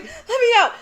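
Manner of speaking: high loud yell breaking into laughter; screaming, laughing. Retold or imitated. Retelling the blanket trap to a friend, laughing scream. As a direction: yell to be freed while cracking up. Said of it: "I'm screaming".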